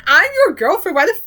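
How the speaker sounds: mock angry girlfriend. Voicing Ondine scolding Kim.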